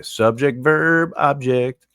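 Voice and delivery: teacher leading a drill; class drill. Shown as a demonstration. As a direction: lead the class in unison.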